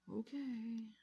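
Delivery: a breathy, unvoiced okay; imitating fiance's whispered okay. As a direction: mouth the okay almost silently. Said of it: "he's just like".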